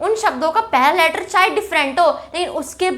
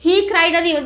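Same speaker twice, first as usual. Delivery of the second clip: slow example read; much slower than usual. Shown as a demonstration. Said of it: "figure of speech".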